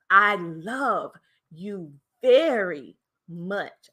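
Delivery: "love" and "very" held long; slow down and stretch "love" and "very"; stress on love and very. Shown as a demonstration. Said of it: "words that I hit and I elongated".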